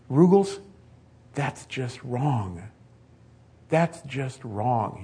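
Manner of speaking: understated weeping, words drawn out slowly; retold sobbing. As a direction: mourn a fallen comrade, slowly. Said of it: "the soldier starts sobbing, starts weeping".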